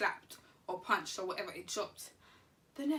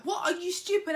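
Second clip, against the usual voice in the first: retold anger; 8 semitones higher, 4 dB louder than usual. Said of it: "I was like".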